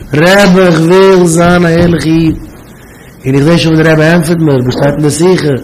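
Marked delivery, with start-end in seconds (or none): 0.1-2.4 drawn-out mock wailing; imitated tearful plea. Student who also begs the Rebbe, imitated tearful plea. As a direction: plead with a touch of imitated weeping. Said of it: "hat auch geweint".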